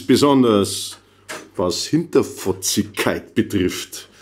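measured stage reading of a comic poem; poem recital. Acted. Poet reading a homesick Bavarian list to a Northern crowd, measured recital. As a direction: recite it phrase by phrase, with deliberate pauses.

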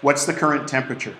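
clear, careful command to a phone. Shown as a demonstration. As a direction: speak it plainly to Siri. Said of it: "I can say what I wanna do".

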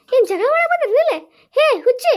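amused mother chiding through laughter; laughing scold. Acted. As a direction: laugh while telling the girls off. Mother laughs at kids fighting.

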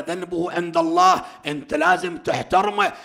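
loud, high scolding; stern rebuke. Acted. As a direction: scold him sharply for his disrespect. Imam rebukes the man. (توبيخ حاد بصوت عالٍ)

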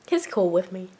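unvoiced whispered aside. Real, not acted. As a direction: whisper so he won't hear. Whispered aside near cat.

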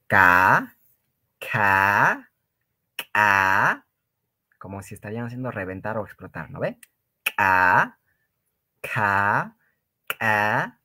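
"K" popped out hard, as if bursting something; explosive K. Shown as a demonstration. Teacher drills the glottalised k for students, short and explosive. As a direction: make each "K" explode sharply.

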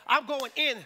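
hammed-up shout of the Canaanite woman; mock battle cry. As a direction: shout it like charging into a fight. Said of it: "We'd be like".

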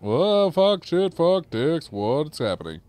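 high-pitched flustered outburst; startled swearing. Real, not acted. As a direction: blurt curses as the game goes haywire. Sudden trouble in the game.

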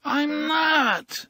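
high, complaining protest; whiny denial from a half-asleep man; querulous. Acted. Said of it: "cried back querulously".

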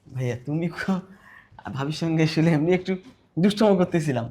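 soft, low, placating voice; sheepish backpedalling. Acted. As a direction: shrink back and excuse yourself quietly. Caught by brother, backs down sheepishly.

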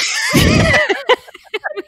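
high, very loud burst of laughter; loud laughing shriek. Real, not acted. Host cracking up after own accent attempt, shrieking laughter.

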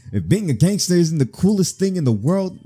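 high, over-eager gangster wannabe; put-on giddy hype; way too excited. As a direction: gush with overblown enthusiasm. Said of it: "This man way too excited".

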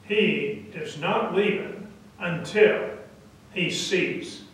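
soft, measured and immovable; quiet defiance. Acted. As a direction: stand your ground softly, word by word. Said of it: "mild-mannered Karen stares right back".

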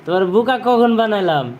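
high-pitched, mock-indignant question; incredulous protest. Real, not acted. Father protesting to his little child, incredulous.

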